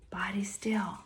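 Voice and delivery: whispering body still softly; whispered. Shown as a demonstration. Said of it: "voice quiet".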